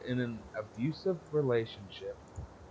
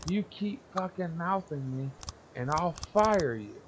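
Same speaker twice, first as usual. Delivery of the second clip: mock furious boss; 7 semitones higher than usual. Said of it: "she freaks out".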